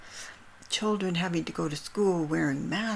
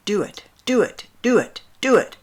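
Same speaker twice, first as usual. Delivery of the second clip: loud, higher, desperate repeated shouting; retold desperate yelling; 4 semitones higher, 12 dB louder than usual. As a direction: shout it over and over like a desperate man. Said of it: "yelling at the top of his lungs".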